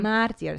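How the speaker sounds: "martyr" said mar-teer; mispronounced martyr. Shown as a demonstration. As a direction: end "martyr" like the word "tier". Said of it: "saying incorrectly".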